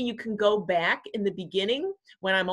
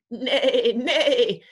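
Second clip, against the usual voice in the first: loud, quavering whinny; horse neigh; 4 semitones higher, 7 dB louder than usual. A narrator's reading. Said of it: "said the horse".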